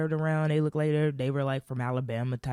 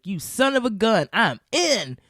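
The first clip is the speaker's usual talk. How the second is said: playful agreement; 7 semitones higher, 6 dB louder than usual. Retold or imitated. Narrator accepting friendship.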